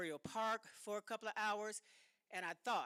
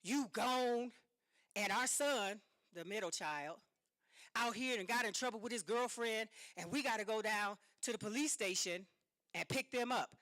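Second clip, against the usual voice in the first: angry husband; 4 dB louder than usual. Retold or imitated. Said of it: "And so he said".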